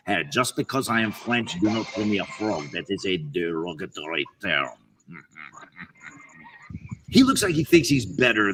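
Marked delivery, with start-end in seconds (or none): 0.1-4.7 put-on French frog accent. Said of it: "maybe he is a French frog".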